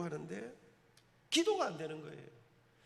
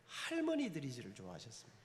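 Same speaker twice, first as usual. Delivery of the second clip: usual speaking voice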